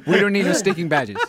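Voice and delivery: light mock Latin accent, amused. Shown as a demonstration. Host models the badges line, light Latin accent. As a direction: lightly put on a Latin movie bandit accent. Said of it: "Give us a little Latin flavor".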